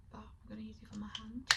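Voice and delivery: soft ASMR-style whisper. Real, not acted. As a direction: breathe the words out, barely voiced.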